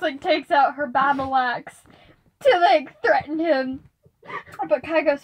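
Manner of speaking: ordinary talk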